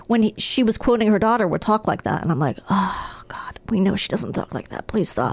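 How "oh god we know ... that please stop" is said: hushed aside; whispering. Retold or imitated. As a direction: whisper it under breath. Mocking mom's baby talk.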